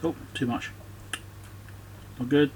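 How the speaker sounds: ordinary delivery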